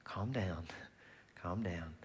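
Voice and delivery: soft, low hush; soothing whisper. Acted. God calming us like a mother, soft soothing whisper. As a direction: whisper it gently, as if to a baby. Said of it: "he holds us close and says".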